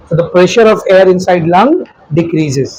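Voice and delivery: slow, measured English sentence; slow dictation. Real, not acted. Teacher gives the class a note in English, slow dictation. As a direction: dictate slowly, dropping off on the last word.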